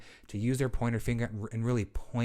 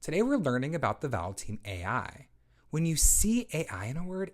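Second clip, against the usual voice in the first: bright, clear teacher voice for a lesson; teacher modeling. Shown as a demonstration. Teacher introducing a vowel team to a child, clear and encouraging. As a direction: model the sound like a reading teacher. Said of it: "So I might say something like".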